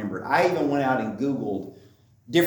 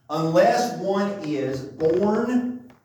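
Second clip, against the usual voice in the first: "unless one is born" drawn out slowly, pitch raised; stress on unless; 5 semitones higher, much slower than usual. Shown as a demonstration. Preacher highlights the key phrase for the congregation, "unless" slow and emphatic. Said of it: "I highlighted the first part of that phrase".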